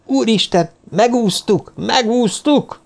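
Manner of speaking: high, jubilant exclaiming, last word drawn out; overjoyed cry. Acted. Professor tossing colleague in the air, overjoyed cry. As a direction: cry it out in wild relief. Madman rejoices, throws her aloft.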